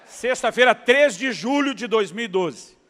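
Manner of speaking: loud, slow, through laughter; laughing emphasis. Real, not acted. Preacher laughing as he drives home the date.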